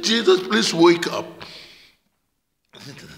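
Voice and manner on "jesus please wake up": raised, louder cry for help. Retold or imitated. Peter crying out to Jesus in the story, urgent raised cry. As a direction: call out urgently to wake him. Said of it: "Peter cries out in the story".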